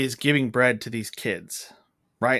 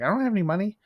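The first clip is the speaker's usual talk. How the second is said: high-pitched imitation of a defensive princess; mock attitude; 8 semitones higher, much faster than usual. Jasmine answering the merchant who wants payment, with mock attitude. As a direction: toss it back high, imitating her attitude. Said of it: "she gets an attitude".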